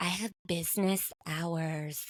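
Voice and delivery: slow, drawn-out, every syllable carefully over-enunciated. Quoting a social media personality's catchphrase: imitating Gabby Windey's pronunciation. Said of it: "pronouncing words in unusual and intoxicating ways".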